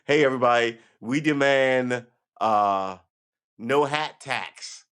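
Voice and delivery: hammed-up protest shout at the monument; mock rally call. Shown as a demonstration. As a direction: call out to the crowd like a protest leader. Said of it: "I don't even know what you would demand".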